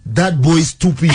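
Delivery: put-on tossed-off line in a Nigerian accent; the speaker's Nigerian accent. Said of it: "In a Nigerian accent".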